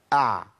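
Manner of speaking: "أع" with the breath fully held back; clear, ringing throat ayn closing "أع"; voiced ayn, breath stopped. Shown as a demonstration. Teacher showing the correct letter, no breath escaping. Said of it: "امنع النفس تمامًا".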